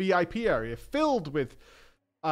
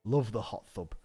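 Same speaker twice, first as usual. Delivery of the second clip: put-on dazed drunk voice; 8 semitones lower, 7 dB quieter than usual. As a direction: drift off, mumbling happily. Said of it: "he just repeated".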